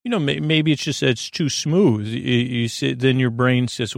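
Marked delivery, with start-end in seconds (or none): 0.0-2.1 quoted reply. Retold or imitated. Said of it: "I say".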